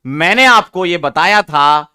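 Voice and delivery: slowed right down so every word lands; a teacher slowing down to drive a rule home; slow, deliberate teaching. Shown as a demonstration. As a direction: spell out the rule word by word for the class. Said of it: "ध्यान से सुनो".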